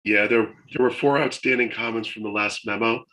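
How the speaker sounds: losing his voice, a bit raspy; hoarse from a chest infection. Real, not acted. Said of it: "so I'm kinda losing my voice".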